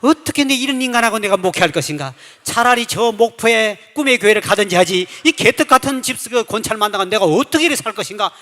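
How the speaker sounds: fed-up furious grumble; angry outburst. Retold or imitated. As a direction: vent like your head just blew open. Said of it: "머리 뚜껑이 딱 열리는데".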